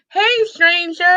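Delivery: mock sing-song greeting. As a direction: lightly imitate the guy's coy hello.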